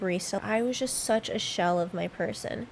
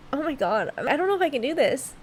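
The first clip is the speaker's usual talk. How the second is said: higher, emotional plea to the listeners; real tearful overwhelm; 4 semitones higher than usual. Real, not acted. Podcaster doubts she can address her younger self, tearful. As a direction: struggle to get through it, near tears. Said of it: "every episode I end up crying".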